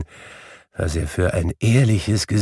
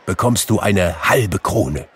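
raised, eager instructions; elated higher voice, urging him on; excited orders; 6 semitones higher, 5 dB louder than usual. A narrator's reading. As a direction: call out the errand with urgency. Scrooge calls orders to boy.

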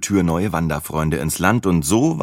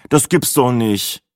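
slow, high moan of disbelief; groaning; 6 semitones higher, slower than usual. A narrator's reading. Narrator dreading the new travel companion, groaning. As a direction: drag it out in dismay. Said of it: "stöhnte ich".

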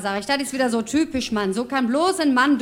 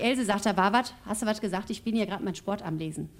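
mildly sanctimonious husband, a bit lower and softer; feigned innocence; 3 semitones lower, 5 dB quieter than usual. Acted. Husband caught reading his sports pages by his wife, feigning innocence. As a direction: play innocent, understated, voice dropping off. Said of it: "sagt so ganz scheinheilig".

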